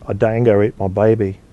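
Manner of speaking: put-on weak, hammy Australian accent; lightly put-on Aussie accent. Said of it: "I've gotta work on my Australian accent".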